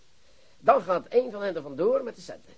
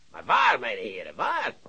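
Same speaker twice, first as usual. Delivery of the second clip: shouting; 4 semitones lower, 5 dB louder than usual. Acted. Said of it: "Schreeuw niet zo verdomme".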